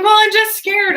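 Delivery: high, loud, frightened imitation; mock anxious. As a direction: mimic an over-anxious stranger. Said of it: "level fifteen anxiety".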